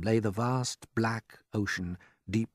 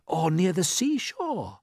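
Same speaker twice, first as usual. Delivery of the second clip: slow, higher, full of hope; eagerly; 10 semitones higher, 3 dB louder, slower than usual. A narrator's reading. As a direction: dream out loud like a keen boy. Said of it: "said James eagerly".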